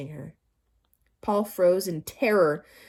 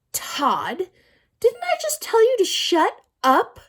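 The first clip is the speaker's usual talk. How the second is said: much higher, loud furious teacher; angry scolding; 12 semitones higher, 7 dB louder than usual. A narrator's reading. Teacher furious at Todd for talking. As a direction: scold him hard, voice climbing.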